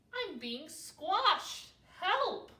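high, loud squashed plea; calling for help. A narrator's reading. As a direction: cry out from under a pile. Owl squashed, calls for help.

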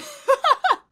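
loud, high burst of laughter; sudden, hearty high laugh. Real, not acted. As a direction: cackle in a high pitch. Amused by shotgunning straws.

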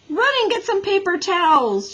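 high, loud call across the room. A narrator's reading. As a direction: call it out to the children. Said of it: "she called to the other children".

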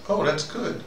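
ordinary talk, nothing marked

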